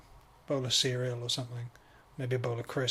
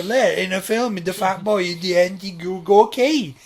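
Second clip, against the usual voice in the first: louder, higher daft character; silly put-on voice; 5 semitones higher, 8 dB louder than usual. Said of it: "why am I speaking like this".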